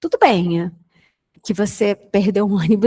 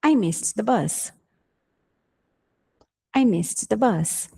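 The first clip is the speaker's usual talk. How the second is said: slow model sentence; 3 dB quieter than usual. Shown as a demonstration. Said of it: "é".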